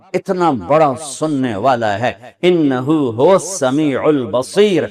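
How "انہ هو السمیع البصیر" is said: slow, drawn-out Arabic verse; Quran recitation. Acted. Preacher cites scripture on the Lord who hears, in slow recitation. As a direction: recite with long, measured vowels.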